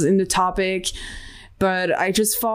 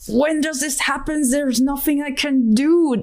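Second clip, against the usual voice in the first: pitched up high, frantic retold inner voice; retold panic; 8 semitones higher than usual. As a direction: replay the panic high and anxious. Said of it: "I was like".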